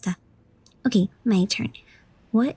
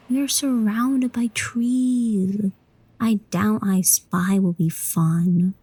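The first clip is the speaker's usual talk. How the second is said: deadpan aside; slower than usual. Acted. Child dismisses I Spy.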